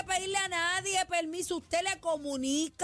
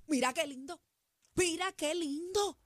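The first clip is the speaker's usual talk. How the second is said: sweet compliment. Shown as a demonstration. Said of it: "mira la manera correcta".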